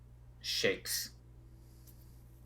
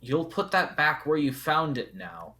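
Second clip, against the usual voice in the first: loud, indignant ancient rock creature; grumpy stone guardian; 3 semitones higher, 8 dB louder than usual. Acted. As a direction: bellow like a roused cave spirit. GM voices the stone face.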